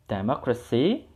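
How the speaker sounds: Democracy with mo stressed. Shown as a demonstration. Teacher showing the class where stress goes in Democracy. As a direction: lean on the mo in Democracy, said rising. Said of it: "kalian tekan di mo-nya".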